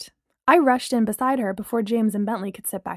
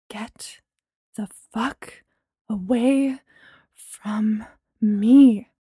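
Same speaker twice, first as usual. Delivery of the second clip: angry; much slower than usual. A narrator's reading. Furious rejection.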